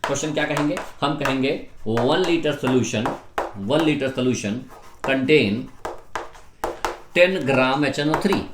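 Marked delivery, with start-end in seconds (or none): 1.9-8.4 slow dictation. Real, not acted. Teacher dictating a question.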